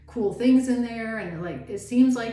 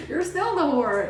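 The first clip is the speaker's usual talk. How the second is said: mock accusation; 6 semitones higher, 4 dB louder than usual. Women accusing the new partner.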